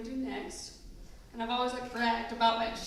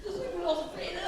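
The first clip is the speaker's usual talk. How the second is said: high, breathless giggle through the words; laughing through words; 8 semitones higher, much faster than usual. Real, not acted. Bridesmaid giggling helplessly at her own speech, laughing.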